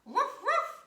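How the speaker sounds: high, loud woofs; dog bark. Pretend. Storyteller voices the dog coming up to spider, high loud bark. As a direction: bark out like an excited pup. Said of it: "and the dog says".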